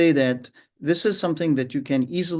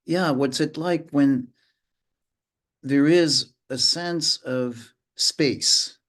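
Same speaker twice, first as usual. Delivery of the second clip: slowed down; slower than usual. Shown as a demonstration. Modelling slowness.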